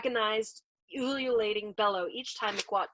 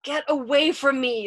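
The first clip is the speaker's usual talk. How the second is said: raised, anguished plea; pleading; 5 semitones higher, 6 dB louder than usual. A narrator's reading. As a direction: beg him, short of a scream. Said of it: "pleading with him now".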